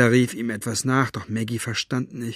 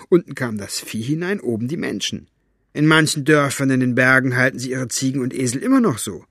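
put-on old man voice; 3 semitones higher, 5 dB louder, faster than usual. Fenolio's voice, explaining.

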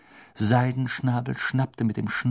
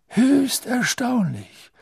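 higher, slow amused remark; chuckling; 14 semitones higher, 4 dB louder, much slower than usual. Acted. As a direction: suppress a chuckle. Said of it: "mit einem Glucksen in der Stimme".

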